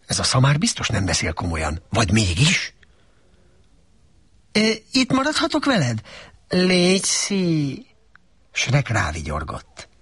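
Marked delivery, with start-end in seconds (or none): 4.5-7.9 pleading donkey. A narrator's reading. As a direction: beg him sweetly in a high voice.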